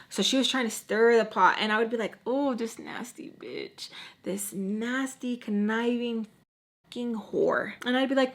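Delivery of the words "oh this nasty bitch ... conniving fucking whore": slow, softer aside; retold muttered insult. Woman privately cursing her rival, slow muttered insult. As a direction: draw the insult out under your voice.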